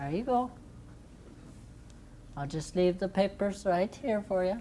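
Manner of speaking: whispered, hushed, breathy, mocking sarcasm. Sitting down as ordered under a threat: sarcastic. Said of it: "You're being awfully sarcastic".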